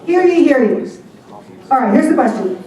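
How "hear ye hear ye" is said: loud herald's call; yelled proclamation. Shown as a demonstration. Host practising the captain's yell, loud cry. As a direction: bellow it like a town crier. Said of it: "throw down your club and yell".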